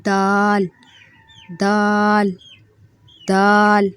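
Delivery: دال said softly with a light tongue tap; gentle دال; soft letter demo. Shown as a demonstration. Teacher modelling a soft دال. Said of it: "یہ بھی نرمی سے".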